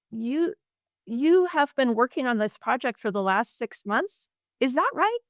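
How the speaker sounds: every phrase rising at the end like a question; uptalk. Shown as a demonstration. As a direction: end each sentence going up, unsure. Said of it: "So it sounds something like".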